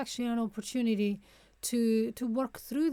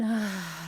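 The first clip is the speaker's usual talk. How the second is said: relaxed sigh out; audible sigh; 3 semitones lower than usual. Shown as a demonstration. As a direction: sigh the breath out to show how. Demonstrating the out-breath.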